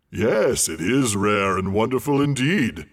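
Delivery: loud, smug dragon purr; pleased dragon. A narrator's reading. Flattered dragon answering the hobbit, smug. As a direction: preen with pride. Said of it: "absurdly pleased".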